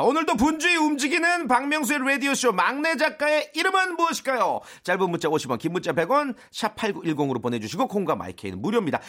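quiz announcement. Acted. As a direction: read the quiz and entry details to listeners. Reads out listener quiz announcement.

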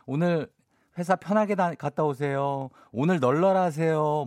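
lazy cheerful send-off; relaxed. Shown as a demonstration. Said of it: "뭐 이렇게".

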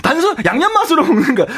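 incredulous echo. Retold or imitated. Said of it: "질문을 이만큼 길게 했는데".

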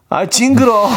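put-on high, drawn-out childish whine; whiny toddler voice. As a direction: imitate a fussy little girl. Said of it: "소리 지르면서 울더라고요".

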